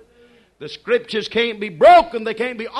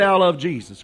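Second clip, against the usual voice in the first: call and response; 4 semitones lower than usual. Acted. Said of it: "Somebody say".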